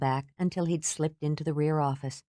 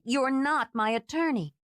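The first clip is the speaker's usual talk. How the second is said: sharp retort; 9 semitones higher than usual. Acted. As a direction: fire it straight back at him. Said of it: "she shot back".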